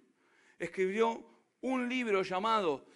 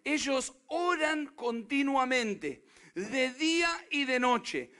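slow scripture reading; 3 semitones higher, slower than usual. Retold or imitated.

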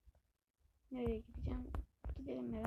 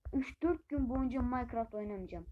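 fed up; 5 dB louder than usual. Real, not acted. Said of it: "Minecraft'tan bıktım ya".

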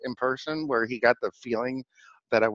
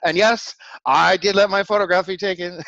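high-pitched, laughing confession; laughing admission; 9 semitones higher, 4 dB louder than usual. Real, not acted. Admitting to listeners he was photographed, laughing. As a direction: admit it through your laughter.

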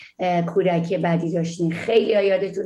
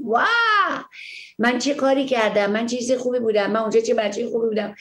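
delighted surprise; 3 semitones higher than usual. Pretend. Imagined delighted self-discovery.

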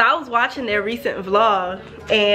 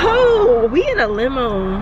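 excited; 3 semitones higher, 3 dB louder than usual. Real, not acted. Excited car ride.

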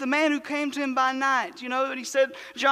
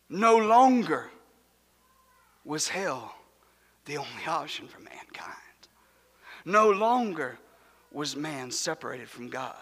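hushed awe; 9 semitones lower than usual. Acted. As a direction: let it fall to a breath after the shouting. Sudden hush after the climax.

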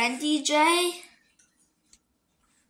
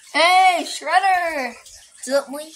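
loud high call to the pet; excited pet greeting; 5 semitones higher, 6 dB louder, much slower than usual. Real, not acted.

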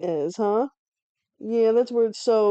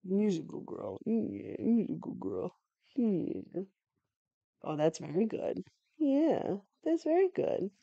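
much softer, gentle praise to the dog; tender coo; 10 dB quieter, slower than usual. Real, not acted. Softly praising the dog Toto, tender coo. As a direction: hush it like soothing a pet.

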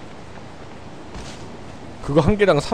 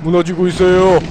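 playful mock news report; news anchor voice; 2 semitones higher than usual.

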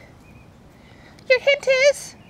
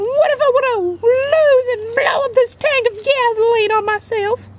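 mock crying. Pichu whining about blowing up.

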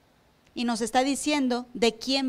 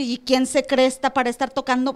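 mock indignant gossip. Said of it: "irse con los suyos y decir".

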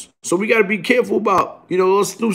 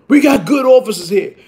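shout; 4 semitones higher, 4 dB louder than usual. Real, not acted. Rant about police.

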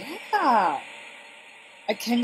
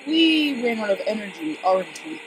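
Johnny voice. Pretend. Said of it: "my best Johnny voice".

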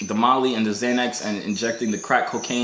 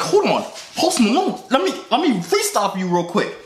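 mock excitement; 9 semitones higher than usual. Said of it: "I was like".

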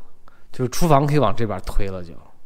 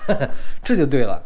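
laughing. Real, not acted. Laughs while approving layout.

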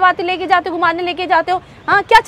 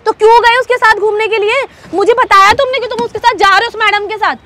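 heated, indignant questioning; angry accusation; 2 semitones higher than usual. Acted. Girlfriend confronting boyfriend about an outing, angry accusation. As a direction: demand an explanation, voice pushed up.

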